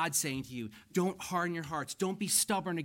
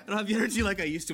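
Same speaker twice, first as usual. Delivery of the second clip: emphatic repeat; 5 semitones higher, 7 dB louder, much faster than usual. Real, not acted. Repeats line, louder and faster.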